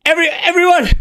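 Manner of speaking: high, gleeful cackle of a nervous wizard; cackling young wizard. Acted. DM voicing the wizard gloating over his summoned imp, high and cackling.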